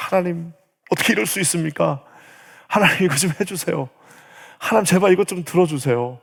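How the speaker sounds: acted entreaty to God, mildly urgent; pleading prayer. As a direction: beg in prayer, starting from a sigh. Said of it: "기도하면은 하나님 앞에". (하나님께 애원하는 기도 흉내)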